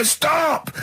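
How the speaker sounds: high yelped "Stop!"; high, panicky mock yell of a passenger; mock scream. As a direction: imitate a panicked passenger yelping. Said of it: "he'd scream and go".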